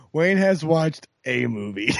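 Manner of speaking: "a" said as a full, stressed "ay". Shown as a demonstration. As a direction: lean on "a" to mean just one. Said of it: "Wait, no".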